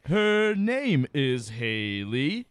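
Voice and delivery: very slow, choppy staccato syllables. Shown as a demonstration. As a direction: chop it out like an arthritic rapper. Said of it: "just staccato".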